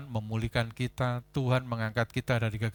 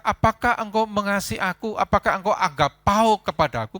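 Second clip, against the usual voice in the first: loud preaching; 6 semitones higher, 8 dB louder than usual. Acted. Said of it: "Ketika Tuhan berkata".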